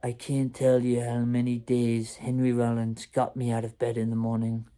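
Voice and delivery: badly faked French accent, slightly muted. Friend confessing what gets him up, in a botched French accent. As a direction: attempt a French accent and miss toward British. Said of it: "I can't do a French accent".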